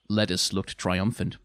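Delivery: ordinary delivery, nothing marked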